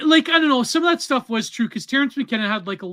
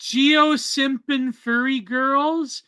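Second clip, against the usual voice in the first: slow stumbling read; 5 semitones higher, much slower than usual. Real, not acted. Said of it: "see if you fuck up this one".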